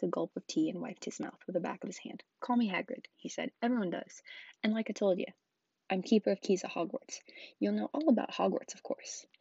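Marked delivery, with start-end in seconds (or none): 2.4-9.3 lightly voiced friendly giant; Hagrid introducing himself. Giant tells the boy who he is, lightly voiced character. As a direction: giant introducing himself with a little extra lift.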